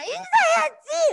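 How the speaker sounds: high, loud, slow insistence; high-pitched parental nagging; nagging mom. Retold or imitated. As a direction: press the child like a pushy mother. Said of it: "자꾸 그러잖아".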